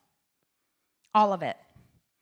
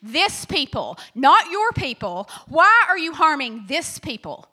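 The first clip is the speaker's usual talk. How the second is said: louder, pleading complaint to God; Moses protesting; 3 dB louder than usual. Retold or imitated. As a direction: demand an answer from God. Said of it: "he goes to God and he says".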